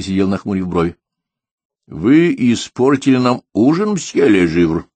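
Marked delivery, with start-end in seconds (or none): 1.9-4.9 slow, higher-pitched indignant accusation; moderately menacing, drawing out the words; menacing reproach. A narrator's reading. Diner rebukes the guest who ruined dinner, menacing. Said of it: "грозно сказал он".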